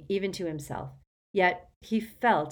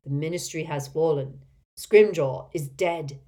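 loud, slow, deep announcement; slow solemn warning, loud; low unhurried voice; 6 dB louder than usual. Acted. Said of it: "loud, deep, slow voice of Kingsley Shacklebolt".

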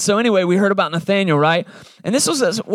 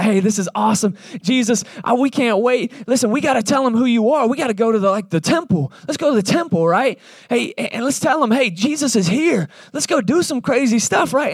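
hyped up; 6 semitones higher than usual. Retold or imitated. Disciples hyped up.

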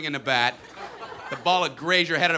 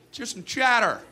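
coach yelling; 4 semitones higher than usual. Retold or imitated. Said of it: "our coach would yell".

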